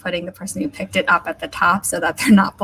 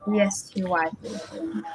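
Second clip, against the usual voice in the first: quick, softer second read of the code; quiet repeat; 8 dB quieter than usual. Shown as a demonstration. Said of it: "I need to apologize".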